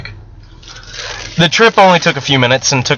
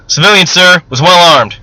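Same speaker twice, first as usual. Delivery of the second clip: louder, clipped military report; 1 crisp report; 4 semitones higher, 5 dB louder than usual. Acted. Soldier reporting a captured civilian to sergeant, crisp.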